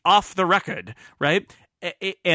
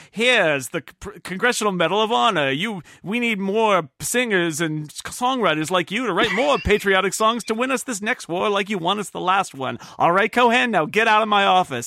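raised, loud gruff president; Roosevelt voice; 5 semitones higher, 3 dB louder than usual. Retold or imitated. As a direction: boom it out like an old tycoon. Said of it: "and Roosevelt says".

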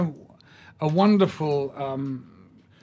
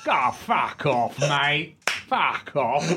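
Cockney fan; much slower than usual. Retold or imitated. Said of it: "He goes".

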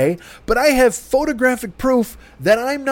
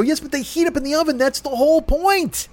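heated; 5 semitones higher than usual. Retold or imitated. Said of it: "I'm at that pitch".

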